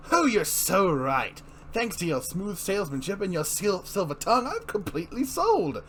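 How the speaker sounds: a lightly voiced, oily Joker making a smug sales pitch; a smirking villain, just hinted in the voice. Reads the Joker buying the park.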